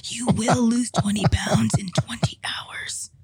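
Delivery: slow hushed ASMR whisper. Pretend. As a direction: whisper slowly, like a soothing ASMR tape. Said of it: "that was just my comment".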